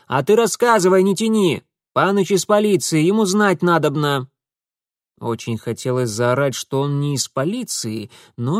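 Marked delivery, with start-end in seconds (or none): 0.1-4.3 higher, louder bossy urging; bossy village girl. Acted. Darinka pressing the scared girl to speak, higher and louder. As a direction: push her to talk.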